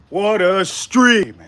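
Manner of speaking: very slow, drawn-out words; slow emphatic marvel. Real, not acted. Streamer marvelling at his stream, slow and emphatic. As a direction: stretch out every word for emphasis.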